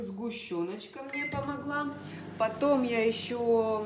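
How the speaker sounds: ordinary talk, nothing marked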